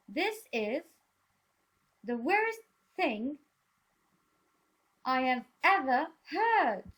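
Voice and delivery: lightly voiced outraged courtier; indignant advisor. Shown as a demonstration. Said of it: "repeat after me".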